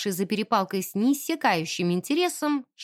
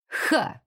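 grunted ha. Acted. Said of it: "крякнул".

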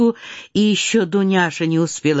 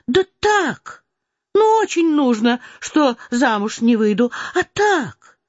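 put-on higher, playful girl insisting; young Natasha; 5 semitones higher than usual. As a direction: tease your mother with a light girlish lilt. Natasha teasing mother.

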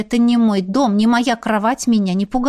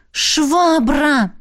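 bark; 6 semitones higher, 3 dB louder than usual. Acted. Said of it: "рявкнула я".

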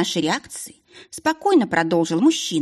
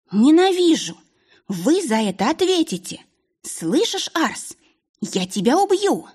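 furious screaming; 9 semitones higher than usual. A narrator's reading. Isabel screaming threats at the duke in fury. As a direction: scream your hatred at him. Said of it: "выкрикнула Изабель".

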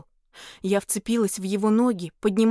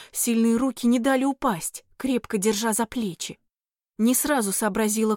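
ordinary delivery

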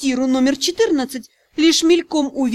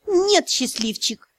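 angry; 3 semitones higher, slower than usual. Acted. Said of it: "зло ответила я".

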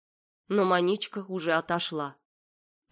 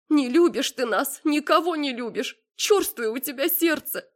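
higher, tearful reproaching mother; a mild tearful reproach; crying mother; 9 semitones higher, 4 dB louder than usual. A narrator's reading. Weeping mother reproaches her cold daughter, much higher. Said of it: "Мама принялась плакать".

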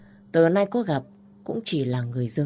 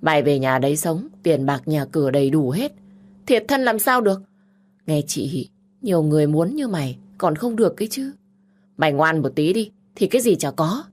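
loud, insistent big sister; pushy sister bargaining hard; bossy persuading sister; 4 dB louder than usual. Acted. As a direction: lecture her into obeying.

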